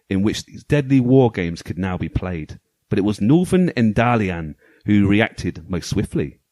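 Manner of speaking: dramatic storybook narration; story voice. Pretend. Host reading the game manual's story to co-hosts, story voice. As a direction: read it out like a pulp sci-fi tale, measured and weighty. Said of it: "my story voice on".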